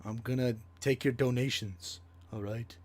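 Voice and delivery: put-on Bernie Sanders with a Black accent; imitating an African American accent. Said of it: "that's my Tyrone Sanders voice".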